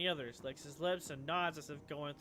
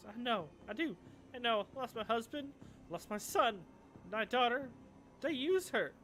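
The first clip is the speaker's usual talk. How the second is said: higher, strained tearful voice; grieving mother; 8 semitones higher, 5 dB louder than usual. Acted. Concerned woman tells runners of her lost family, tearful. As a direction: hold back tears as you speak.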